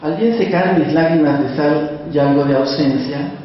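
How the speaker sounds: calm, measured reading of a sad memory; poetry reading. Acted. Continues reading the poem.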